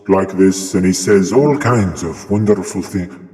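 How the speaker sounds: Alan Watts attempt slipping into Irish; light, unintended Irish lilt; accidental Irish accent. Shown as a demonstration. Streamer imitating a philosopher's talk, slipping into an Irish accent. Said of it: "oh, that's my Irish accent".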